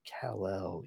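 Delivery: soft, hesitant murmur. Acted. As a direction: let the name fall away quietly. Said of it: "He's kinda seems to be hesitating".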